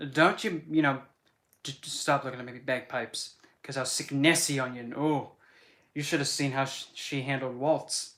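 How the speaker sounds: mild mock Scottish accent; lightly Scottish teasing. Streamer teasing chat about Nessie, in a mild Scottish accent. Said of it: "to actually do the accent".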